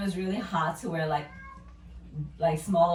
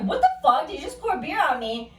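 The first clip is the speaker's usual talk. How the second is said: higher, louder laughing outrage; outraged yell, laughing; 7 semitones higher, 4 dB louder than usual. Retold or imitated. Woman doused with beer yells at guy, laughing outrage. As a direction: yell it in shock while laughing. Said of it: "So I'm like".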